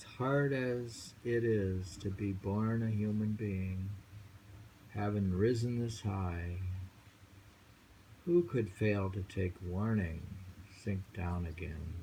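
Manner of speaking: a solemn warning, unhurried; poem reading. Acted. Reads a poem aloud.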